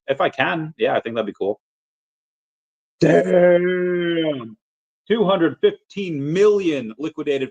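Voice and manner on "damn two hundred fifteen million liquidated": shocked. Real, not acted. Shocked at crypto crash news.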